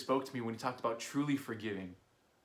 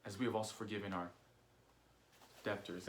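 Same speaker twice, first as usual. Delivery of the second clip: soft reflective reread; 2 semitones lower, 8 dB quieter than usual. Shown as a demonstration. Pastor mulls over the verse, softly. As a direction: let it drop to a near hush. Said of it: "Forgive us our debts".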